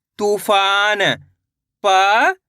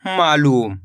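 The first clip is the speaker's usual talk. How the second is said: blended word; 6 semitones lower, much slower than usual. Shown as a demonstration. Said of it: "तो मिलके बन जाएगा".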